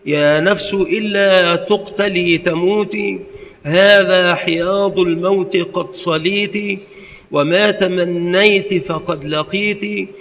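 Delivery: slow, measured poetic recitation; recited verse. Shown as a demonstration. Ibn Rawaha reciting to himself in battle, measured verse. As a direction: chant the lines with rhythm. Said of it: "فجعل يقول".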